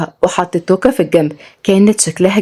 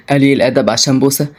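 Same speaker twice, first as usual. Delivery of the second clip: mocking man; 6 semitones lower than usual. A narrator's reading. Selim mocking her.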